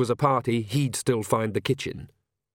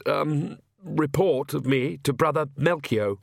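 put-on timid, apologetic young priest, stumbling over words; fretful clergyman who can't get a sentence out; nervous stammering priest; 4 semitones higher than usual. Nervous priest Oates speaks.

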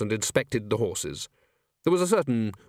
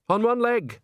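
high-pitched rasping command; rasped order; 11 semitones higher, 3 dB louder, slower than usual. A narrator's reading. Bucket ordering chorus girls to jump, high rasp. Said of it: "he rasped".

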